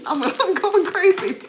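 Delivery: high, loud and laughing through it; giddy, can't stop laughing; giggly excitement. Real, not acted. Giddy about short sleeve weather.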